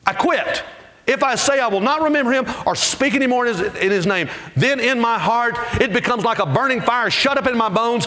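high, driving preacher's cadence; preaching at full force. Acted. Preacher voicing Jeremiah and God's answer, fired up. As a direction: ramp up like a fired-up pulpit. Voices Jeremiah's quitting, then God.

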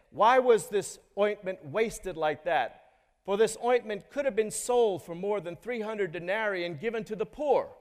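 preacher re-reads the disciples scolding the woman, mildly indignant. Retold or imitated. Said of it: "And they scolded her".

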